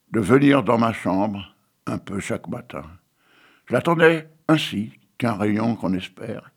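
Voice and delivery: solemn, measured poetry reading; poem recitation. Acted. Reciting Victor Hugo poem.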